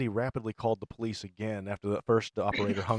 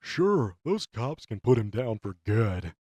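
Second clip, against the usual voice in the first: loud character voice; 6 dB louder, slower than usual. Acted. Acted character line.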